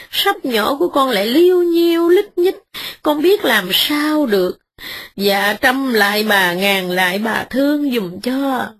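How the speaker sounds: mild sob-tinged begging; tearful pleading. Acted. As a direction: beg humbly for mercy. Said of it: "cứ khóc lóc hoài".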